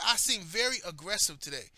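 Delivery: indignantly repeating the accusation; incredulous echo. Retold or imitated. Telling how a coworker accused him, incredulous echo. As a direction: echo it back in mild disbelief. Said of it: "This motherfucker said".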